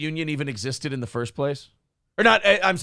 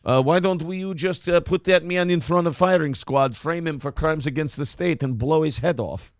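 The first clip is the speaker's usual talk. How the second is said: Scottish-tinged Lenin. Retold or imitated. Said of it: "Why did I turn Scottish at the end?".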